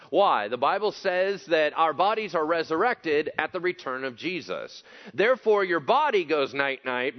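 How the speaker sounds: forceful preacher in full flow, stretching key phrases; emphatic preaching. Real, not acted. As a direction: drive each point home to the congregation.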